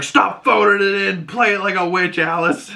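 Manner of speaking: bossy diva director voice; mock stern command. Quoting Agatha scolding Alice.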